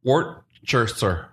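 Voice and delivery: Worcestershire spelled out slowly, each part clear; careful Worcestershire. Shown as a demonstration. Answering how to say it, slow careful Worcestershire. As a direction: teach Worcestershire slowly syllable by syllable. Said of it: "¿Cómo se dice?".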